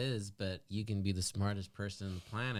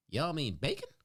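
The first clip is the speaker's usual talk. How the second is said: put-on Southern accent. Employee to shoppers who asked for baking, Southern accent. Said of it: "I love that Southern accent".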